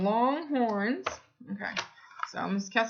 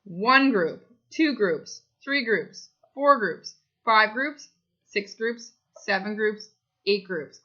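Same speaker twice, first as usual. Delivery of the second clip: put-on teaching a child to count; slower than usual. Shown as a demonstration. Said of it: "Can you count with me?".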